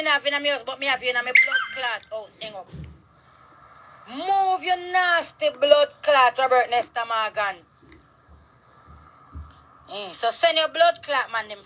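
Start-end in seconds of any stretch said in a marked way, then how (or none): 4.1-7.6 slow furious curse. Real, not acted. Cursing out the politician by name.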